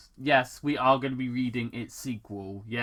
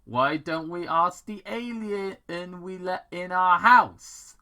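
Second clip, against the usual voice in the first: sarcastic; 6 semitones higher, 5 dB louder than usual. A narrator's reading. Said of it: "Paige asked sarcastically".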